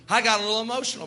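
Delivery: laughing. Real, not acted. Laughs at own hurt foot.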